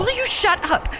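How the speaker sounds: snapping shout; angry shout. Real, not acted. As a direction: yell at them to stop talking. Snaps at chatter on radio.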